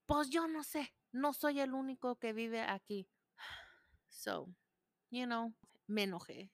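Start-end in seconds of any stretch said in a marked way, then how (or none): 0.1-3.1 put-on higher, shrugging teen voice; mocking son. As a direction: imitate his sulky answer. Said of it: "son's reply".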